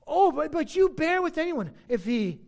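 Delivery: mock amazement, then drop away item by item; sarcastic. Preacher as Paul listing what they put up with, sarcastic. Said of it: "ironic sarcasm".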